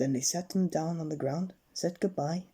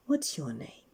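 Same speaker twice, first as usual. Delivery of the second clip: airy whispered character voice; whispered storybook stranger; Mister Daydream whisper. Acted. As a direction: breathe it out as a mysterious figure. Daydream asks Jack.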